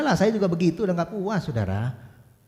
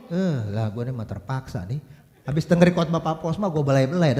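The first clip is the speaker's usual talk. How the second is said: grudging husband; 6 semitones lower than usual. Retold or imitated. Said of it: "Atau Bapak begini".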